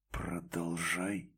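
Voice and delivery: low, soft and slow; hollow low command; muffled. A narrator's reading. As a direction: say it dull and hollow. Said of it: "глухо произнёс он".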